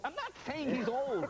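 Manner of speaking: retold exasperated denial. Acted protest to angry Gorbachevs.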